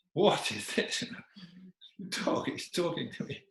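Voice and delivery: high, soft incredulous mutter; baffled king. Acted. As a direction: mumble to yourself in disbelief. Baffled king chewing his mustache.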